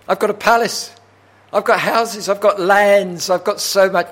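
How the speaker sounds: high, loud acted listing; impassioned preaching. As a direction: build each item emphatically.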